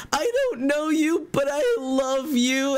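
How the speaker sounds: high, slow, hammed-up happy crying; imitation of sobbing affection, drawn out; tearful gratitude. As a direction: wail it like an overwhelmed fan. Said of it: "she immediately is crying".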